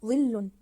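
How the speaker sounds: "ظل" with the ل doubled and held; stressed doubled letter. Shown as a demonstration. Teacher showing pupils the doubled lam, stressed doubled letter. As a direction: lean firmly on the ل in "ظل". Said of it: "الحرف المضاعف هو اللام".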